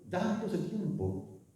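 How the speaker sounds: a hushed slow echo of "dándose tiempo"; soft slow echo. Shown as a demonstration. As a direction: let "dándose tiempo" fall away quietly, slow. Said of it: "soft echo of the phrase".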